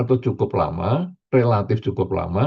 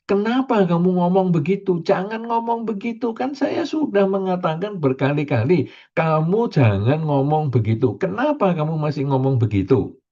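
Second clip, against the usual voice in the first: higher, exasperated nagging; irritated scolding; 5 semitones higher than usual. Retold or imitated. Preacher mimicking an angry person scolding a rude talker. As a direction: scold someone who won't change.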